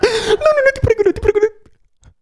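high, sobbing plea; panicked pleading. Acted. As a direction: beg for mercy, crying. Begging the intruder in panic.

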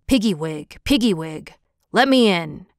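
low-pitched wolf at the door; old wolf. A narrator's reading. Old wolf knocking at the little pig's door, low wolf voice. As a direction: call in as the deep-voiced wolf. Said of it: "he cried".

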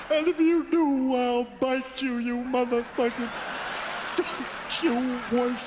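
mock pained yelling. Burned patient yelling at the nurses not to wash him, mock pained yell. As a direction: beg and snarl at the nurses like it hurts.

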